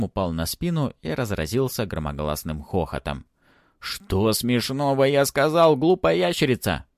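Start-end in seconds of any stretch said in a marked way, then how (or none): 3.8-6.9 angry shout. Acted. Ant yelling at the laughing dragon Barsik. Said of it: "закричал".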